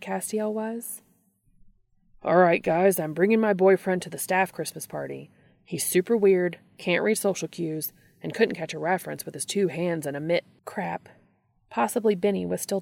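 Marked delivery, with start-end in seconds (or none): 2.2-10.4 imagined announcement. Pretend. Imagined Dean announcing to staff.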